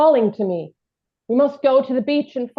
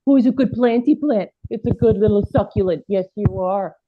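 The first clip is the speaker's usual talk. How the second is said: talking to a plant; 3 semitones lower than usual. Acted. Cooing at a plant.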